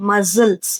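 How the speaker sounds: "ಮಸಲ್ಸ್" with a z in the middle; z sound. Shown as a demonstration. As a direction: say "ಮಸಲ್ಸ್" with no k, a buzzing z. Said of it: "ಝ ಅಂತ pronounce ಆಗ್ತಾ ಇದೆ". ("ಮಸಲ್ಸ್" ಮಧ್ಯೆ ಝ ಶಬ್ದ)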